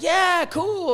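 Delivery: high-pitched retold cheer; imitated excited approval; mock delight. Acts out friend's delighted reaction.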